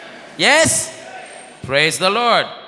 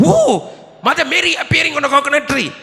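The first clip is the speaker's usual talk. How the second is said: excited crowd; 5 semitones higher, faster than usual. Retold or imitated. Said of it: "villagers marvel again".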